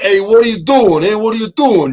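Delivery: quick, off-the-cuff put-on New York accent. Asked to give some impressions, the speaker shows off a New York accent. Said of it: "New York".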